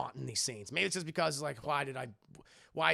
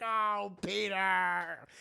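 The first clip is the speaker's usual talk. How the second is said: upset; 3 semitones higher, 4 dB louder, much slower than usual. Retold or imitated. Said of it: "Very upset".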